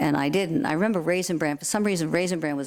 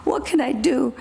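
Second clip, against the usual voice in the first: worried breathy whisper, pitched up; urgent whisper; 7 semitones higher, 3 dB louder than usual. Retold or imitated. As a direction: whisper it anxiously. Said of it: "And she says".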